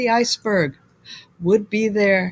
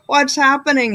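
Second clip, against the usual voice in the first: blaring; 4 semitones higher than usual. Acted. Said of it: "he blared".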